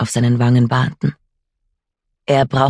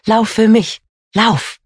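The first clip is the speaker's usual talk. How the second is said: desperate urging; 8 semitones higher, slower than usual. Acted. Mother urging child to flee.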